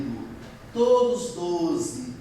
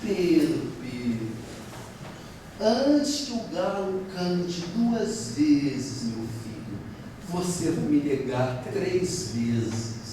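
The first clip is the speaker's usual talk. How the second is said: gentle sorrowful warning; 3 semitones lower, slower than usual. Retold or imitated. Jesus gently foretells the denial.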